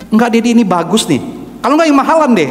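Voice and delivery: high-pitched, persuasive objection; imitated pleading child. Son argues with Dad for the scooter, imitated pleading.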